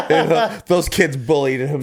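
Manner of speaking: hammed-up protesting mother with laughter; mock defensive mother. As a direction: make mock excuses for your child. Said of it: "a mother of someone who's just, of a school shooter".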